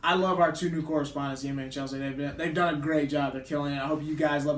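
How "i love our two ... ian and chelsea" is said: ordinary delivery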